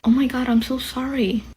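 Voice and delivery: soft, sympathetic mock pity; softly retold condolence. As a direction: gush a quiet, misplaced apology. Retold pitying reaction to immigrant.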